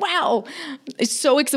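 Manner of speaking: high, wowed gush; retold excitement. Masseuse and client both very excited, retold high excitement. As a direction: imitate being thrilled, pitched well up. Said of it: "we're both now very excited".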